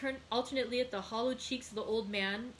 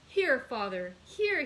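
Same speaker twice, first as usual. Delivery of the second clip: louder, leaping up high at the end; eager urging; 3 semitones higher, 6 dB louder, slower than usual. A narrator's reading. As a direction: press it on him excitedly. Son urging money on father.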